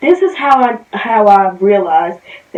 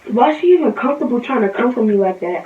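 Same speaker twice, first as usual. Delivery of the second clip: mad; faster than usual. Real, not acted. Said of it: "I get so mad".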